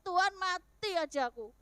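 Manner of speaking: retold desperate cry. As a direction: cry out to God, re-enacting despair. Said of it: "Saya berteriak, berseru, saya berteriak".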